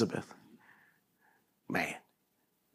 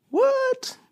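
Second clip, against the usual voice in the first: amazed what; 3 dB quieter than usual. Real, not acted. Amazed reaction to the reading.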